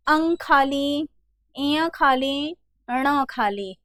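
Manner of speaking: slow, measured alphabet recital; retold schoolroom recitation. Teacher recalling how letters were taught at school, schoolroom recitation. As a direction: recite it like a primary school lesson. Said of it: "आप लोगों को बताया जाता था".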